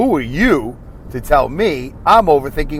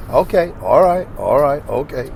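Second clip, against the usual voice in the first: Denzel Washington. Retold or imitated. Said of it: "the worst imitation ever".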